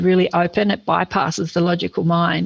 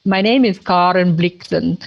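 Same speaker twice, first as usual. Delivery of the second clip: put-on Scandinavian accent. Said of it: "She says".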